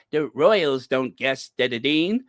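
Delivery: lightly mocked New Zealand twang, tongue-tied; Dan Wooten. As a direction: imitate someone stumbling in a New Zealand accent. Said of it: "he's so upset he can't even get".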